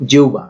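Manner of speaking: জিহ্বা as "jiu-ba"; careful, clear "jiu-ba" for জিহ্বা; model pronunciation. Shown as a demonstration. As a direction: say জিহ্বা with h turned into a short u glide. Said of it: "জিহ্বার উচ্চারণ".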